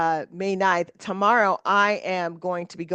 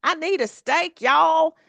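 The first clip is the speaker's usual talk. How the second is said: high, excited craving voice, getting louder at the end; craving a steak; 9 semitones higher, 5 dB louder, slower than usual. Retold or imitated. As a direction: beg for a steak with a high, loud "y'all". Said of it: "I'm like".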